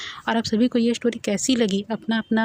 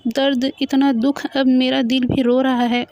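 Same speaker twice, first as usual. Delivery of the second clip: higher, hammed-up mock wail, slow on the grief words; fake crying; 3 semitones higher, slower than usual. Boy hams up fake sobbing over the ghosts' sad story. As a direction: overact the sorrow like a drama queen. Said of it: "रोने की acting करते हुए".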